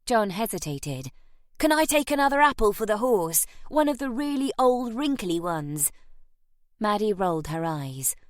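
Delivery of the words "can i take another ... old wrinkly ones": put-on pleading boy. A narrator's reading.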